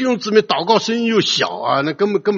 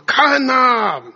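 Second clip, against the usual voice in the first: high, drawn-out heralding call; proclamation from the throne; 5 semitones higher, much slower than usual. Acted. Preacher voicing the great voice from the throne, proclaiming. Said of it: "大的声音从宝座出来宣告啊".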